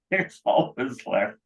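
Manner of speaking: chuckling it out slowly; laughing. Real, not acted. Speaker amused at his own deal, laughing slowly. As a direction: laugh through the repeat.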